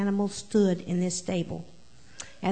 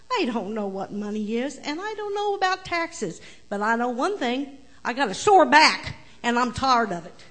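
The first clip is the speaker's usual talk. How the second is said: indignant donkey; 3 semitones higher than usual. Acted. Donkey complaining, louder.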